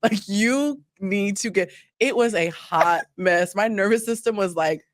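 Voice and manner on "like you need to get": woman telling herself she needs to do work; stern self-talk. Retold or imitated. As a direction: give yourself a slow firm talking-to.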